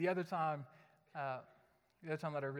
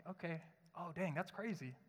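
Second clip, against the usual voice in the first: distracted brush-off; 7 dB quieter than usual. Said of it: "and then I'll".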